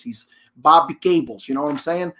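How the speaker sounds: light New York accent impression; a hint of a New York guy's accent, easygoing; Bobby Cables New York accent. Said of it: "He talks like this".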